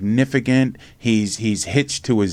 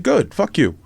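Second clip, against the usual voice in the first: Norristown attitude; 7 semitones higher than usual. Retold or imitated. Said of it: "I gave him the Norristown attitude".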